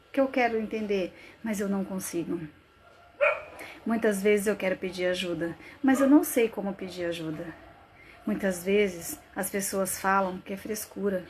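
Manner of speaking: subdued, confessional monologue with long pauses; anguished dramatic monologue. Acted. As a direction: confess the panic quietly, thought by thought. Monologue sinks back. (monólogo angustiado, em tom contido)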